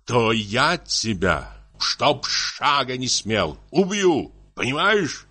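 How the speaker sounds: slow, tearful threat; acted anguished anger, drawn out; muffled tearful voice. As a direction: drag out the threat as if near tears. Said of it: "заговорил он глухим, плачущим голосом".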